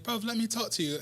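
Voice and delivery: put-on English accent. English star insisting on a word with singer, imitated English accent. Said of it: "you do a good accent".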